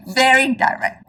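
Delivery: chuckling through very direct; amused self-admission; laughing repeat. Real, not acted. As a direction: laugh at yourself while saying very direct.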